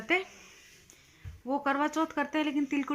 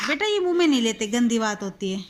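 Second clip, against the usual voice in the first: gentle scolding; 7 dB louder than usual. Real, not acted. Mother scolding child gently.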